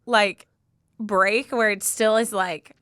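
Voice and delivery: holding back happy tears while talking; moved to tears, gathering yourself; tearful. Real, not acted. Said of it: "We might be crying again".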